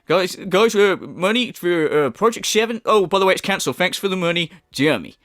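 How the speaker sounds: breeze through it like a scammer; mock quote. Commentator mocking the cancelled project, light smug mimicry. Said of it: "the Project Seven thing".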